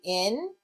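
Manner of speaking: "in" held as a separate word part; syllable alone. Shown as a demonstration. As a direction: say "in" by itself, slowly. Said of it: "break ... into its syllables".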